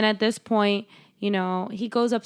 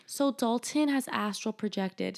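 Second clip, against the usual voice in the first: softer, composed mock announcement; calm; 2 semitones higher, 5 dB quieter than usual. Medium explains to the parents about Dalton, calmly. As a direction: deliver it softly, as a matter of fact. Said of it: "calmly like".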